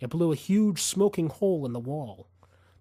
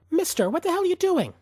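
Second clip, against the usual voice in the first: alarmed outcry; 6 dB louder, faster than usual. A narrator's reading. Woman sees gun drawn.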